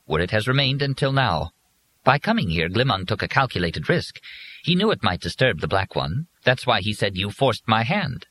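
high, precise, polite robot voice; prim robot servant. Acted. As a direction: stiff dutiful machine, calmly reporting. Robot Willis voiced throughout.

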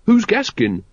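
put-on puzzled young recruit; bewildered. A narrator's reading. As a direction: ask it utterly lost. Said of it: "totally bewildered".

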